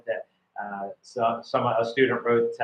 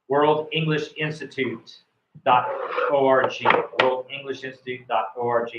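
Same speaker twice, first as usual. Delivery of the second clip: slow dictation. Shown as a demonstration. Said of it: "World Institute".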